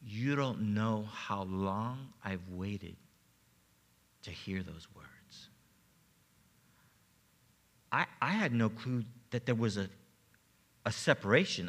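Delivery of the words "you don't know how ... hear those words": tearful quote. Retold or imitated. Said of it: "crying, and through her tears".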